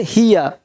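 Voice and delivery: हियर as "hi-ya", the r dropped; soft final r. Shown as a demonstration. Teacher correcting the ending, r dropped. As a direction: end हियर on an open "a". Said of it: "अर नहीं बोलते".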